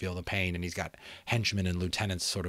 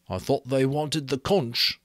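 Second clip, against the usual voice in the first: a lightly voiced boy, higher and slow; puzzled Piggy; 5 semitones higher, 4 dB louder than usual. Piggy telling Ralph after the raid, slow and shaken. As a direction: slowly work it out, shaken.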